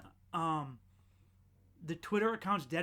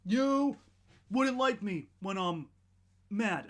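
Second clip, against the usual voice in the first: Hulk line; 2 semitones higher, 4 dB louder, slower than usual. Retold or imitated. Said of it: "He's like the orange fucking Hulk".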